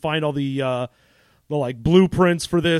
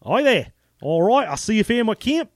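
put-on South African accent; 4 semitones higher than usual. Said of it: "South African voiced random dude".

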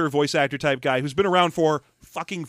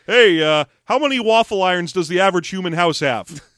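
loud goofy alien voice, louder; Alf voice; 5 dB louder than usual. Retold or imitated. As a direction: blurt it out like a clueless alien. Alf voiced in movie retelling.

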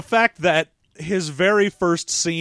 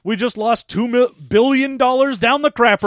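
careless shrug; 3 semitones higher, 4 dB louder than usual. Retold or imitated. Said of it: "the general at that point is like".

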